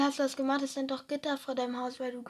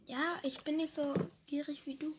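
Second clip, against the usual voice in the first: unvoiced whispered jab; whispered tease; 7 dB quieter than usual. Real, not acted. Friend whispering a tease, unvoiced.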